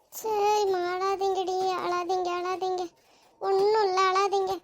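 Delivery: tender, reassuring cooing; soothing baby talk. Acted. Friend takes the crying baby and hushes it, tender reassurance. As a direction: coax a crying infant to settle.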